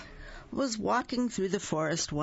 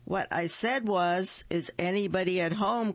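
1 very loud call; 2 semitones higher than usual. Acted. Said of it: "called out Pooh very loudly".

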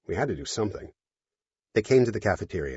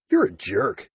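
put-on drunk guy voice; 4 dB louder, slower than usual. Drunk accountant speaking.

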